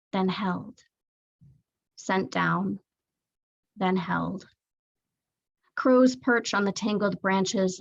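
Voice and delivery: measured recital with long pauses; poetry reading. Acted. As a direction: let each short line stand alone. Reads third poem aloud.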